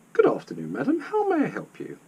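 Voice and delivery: bright-eyed, high-pitched welcome; beaming greeting. A narrator's reading. Desk lady greets an arriving customer, beaming. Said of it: "beamed the young lady".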